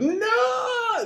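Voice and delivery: shrill, drawn-out furious scream, total meltdown. Retelling a card game where Hero loses it after a Jace is flipped: imitating a furious scream. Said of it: "He just loses it".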